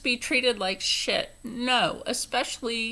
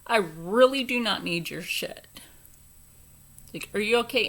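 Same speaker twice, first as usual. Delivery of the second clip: retold angry retort.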